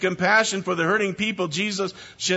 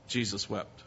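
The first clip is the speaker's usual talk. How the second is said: much softer and lower, near a whisper; hushed, solemn repeat; 9 semitones lower, 12 dB quieter than usual. Acted. Preacher hushes the verse for the church, softly. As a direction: let the two words sink into silence.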